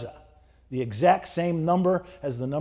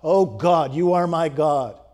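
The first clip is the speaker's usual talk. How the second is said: louder, slow, fervent psalm reading; slow, louder fervent cry to God; psalmist crying out; 7 dB louder than usual. Retold or imitated. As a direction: cry it out slowly like a prayer of longing. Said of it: "The psalmist cries out".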